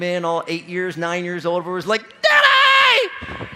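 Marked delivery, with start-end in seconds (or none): 2.2-3.5 put-on high piercing shout of a little girl waking her dad; loud, high child yell; kid's wake-up yell. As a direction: screech it like a child bursting into the bedroom. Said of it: "little kids don't know how to wake you up softly or pleasantly".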